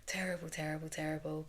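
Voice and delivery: soft unvoiced repeated whisper; whispered self-reproach. Real, not acted. Guilty mum whispering to her listeners about herself. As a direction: breathe the word out like a guilty confession. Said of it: "I'm a terrible mum sometimes".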